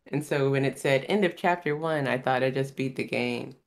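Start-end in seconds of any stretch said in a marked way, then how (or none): none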